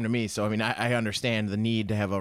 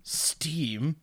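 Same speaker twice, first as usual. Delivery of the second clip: high, drawn-out mock shout of contempt; Tesla's furious verdict; 5 dB louder, much slower than usual. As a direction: bellow it like an outraged genius inventor, slow and high. Tesla blasting the steampunks.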